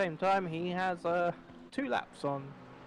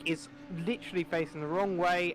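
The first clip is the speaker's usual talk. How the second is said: excited; 5 semitones higher, 4 dB louder than usual. Real, not acted. Crash spotted in live commentary.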